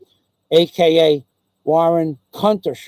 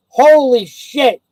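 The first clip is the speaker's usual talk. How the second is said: drawn-out, louder and higher exclamation; real shock; 6 semitones higher, 6 dB louder, slower than usual. Real, not acted. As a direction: let the disbelief burst out slowly. Stunned at news in chat.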